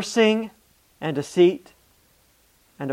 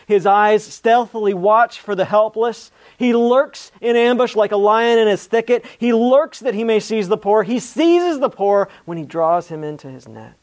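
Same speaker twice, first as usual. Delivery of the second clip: louder, higher, driving recitation; intense scripture reading; 4 semitones higher, 5 dB louder than usual. A narrator's reading. Preacher reading the psalm's wicked deeds to the congregation, intense. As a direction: read it out with mounting force, easing at the end.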